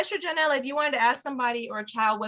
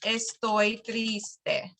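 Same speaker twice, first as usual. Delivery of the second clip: mock sad; much slower than usual. Shown as a demonstration. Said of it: "the pumpkin says".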